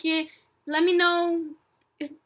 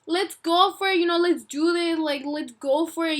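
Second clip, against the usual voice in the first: higher, louder, eager grandma cheer; hyped grandma; 3 semitones higher, 6 dB louder than usual. Retold or imitated. Grandma backing her granddaughter's quince plan, excited. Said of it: "My grandma's like".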